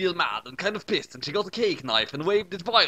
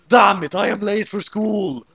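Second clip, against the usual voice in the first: screamed; 6 semitones higher, 7 dB louder than usual. Acted. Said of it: "Light screamed".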